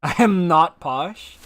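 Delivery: normal talking voice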